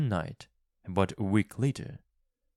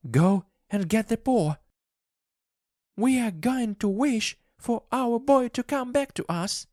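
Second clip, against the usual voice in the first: much higher and louder, desperate; frantic urging wife; 5 dB louder than usual. A narrator's reading. Wife urges husband to fetch the paw, frantic and high. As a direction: push him to act now.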